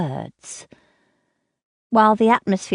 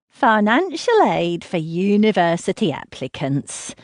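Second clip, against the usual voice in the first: mocking voice. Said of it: "she reads in a mocking voice".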